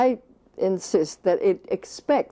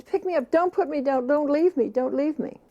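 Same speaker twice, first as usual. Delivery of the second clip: put-on pleading baby; 6 semitones higher than usual. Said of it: "we know it means".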